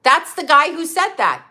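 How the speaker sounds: real angry outburst, hitting each word; emphatic, worked-up accusation; going off. Real, not acted. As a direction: go off on a heated rant. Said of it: "Oh, I'm going off".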